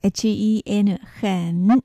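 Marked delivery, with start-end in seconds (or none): 1.2-1.8 很 as Mandarin hen, dipping third tone. Shown as a demonstration. Teacher models 很 for learners, dipping third tone. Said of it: "三声と発音します".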